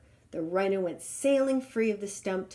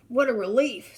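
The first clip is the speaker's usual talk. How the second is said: sighed; 3 semitones higher, 7 dB louder than usual. Acted. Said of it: "sighed the lion".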